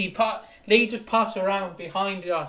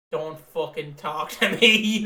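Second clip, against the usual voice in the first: slow, louder, sullen mutter; grumpy brush-off; 2 semitones lower, 5 dB louder, slower than usual. Retold or imitated. Sulking punter shutting down dad in the pub, slow and sullen. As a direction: drag it out, leave me alone. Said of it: "sat there like".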